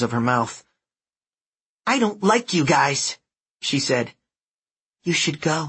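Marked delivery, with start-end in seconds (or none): 1.9-5.6 put-on high, pouty nasal kid; bossy nasal girl. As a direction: sulk at them. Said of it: "bossy nasal voice".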